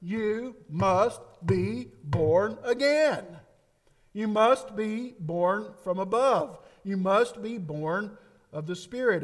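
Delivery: "must" stressed hard, drawn out slowly; slow emphatic quote. Acted. Preacher voicing Jesus to Nicodemus, slow and emphatic. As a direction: hammer the word "must" like a decree. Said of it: "he tells Nicodemus".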